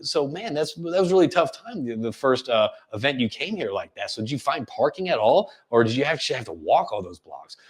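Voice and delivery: empathetic, lowering small talk; sympathise, then gently ask after them; concerned, caring tone; showing concern. Shown as a demonstration. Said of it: "Showing concern".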